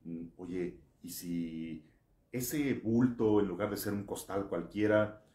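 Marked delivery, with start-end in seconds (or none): 2.3-5.2 loud, high, urgent preaching; booming motivational speech. Acted. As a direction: drive the question home hard. Builds scenario with rising force.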